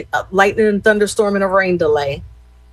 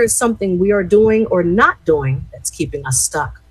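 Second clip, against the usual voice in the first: measured read-aloud of a reflection; inspirational reading. Real, not acted. Host reading the Daily Ohm to listeners, measured. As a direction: read it out deliberately, phrase by phrase.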